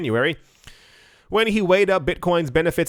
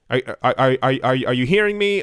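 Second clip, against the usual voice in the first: robot voice; 2 semitones lower, faster than usual. Pretend. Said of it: "Am I sounding like a robot again?".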